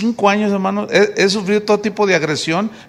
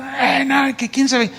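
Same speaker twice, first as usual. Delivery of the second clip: a higher, softer, sly gossip's voice; gossiping busybody; 6 semitones higher, 5 dB quieter, slower than usual. Retold or imitated. Preacher imitating church gossips who stir up trouble, higher and sly. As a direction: sow discord with a hushed whisper of doubt. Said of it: "Siempre están diciendo".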